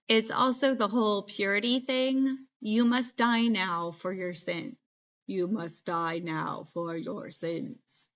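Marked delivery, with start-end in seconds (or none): 2.6-8.1 robot voice. Pretend. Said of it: "That's my robot voice".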